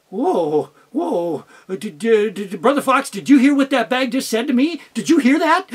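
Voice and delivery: stammering, rising alarm; startled fox. Acted. Fox startled by the growling bag, stammering. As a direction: stutter in shock at the talking bag.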